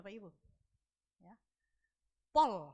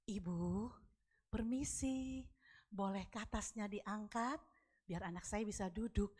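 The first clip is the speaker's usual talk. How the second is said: softer, lower, carefully gentle polite request; 4 semitones lower, 4 dB quieter, slower than usual. Retold or imitated. Asking a woman to move her bag, very gentle. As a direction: ask ever so gently, as if treading carefully. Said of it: "cari intonasi suara yang sangat lembut".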